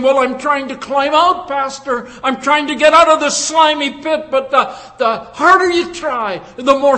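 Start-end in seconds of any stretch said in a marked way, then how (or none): 0.0-4.3 higher, straining voice of someone trying to climb out; struggling listener. Retold or imitated. Preacher voicing a listener telling the pastor he's trying, straining. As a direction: play the churchgoer pleading that he's trying. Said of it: "you might be saying".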